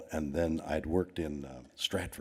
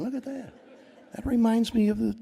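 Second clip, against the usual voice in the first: laughing; 5 dB louder than usual. Real, not acted. Laughing at zoo-like crowd memory.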